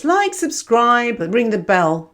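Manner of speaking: slow, stretched-out like, subscribe; mock-reluctant slow call to subscribe; drawn-out plug. Shown as a demonstration. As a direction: drag the words out like a reluctant plug. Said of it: "I never do this".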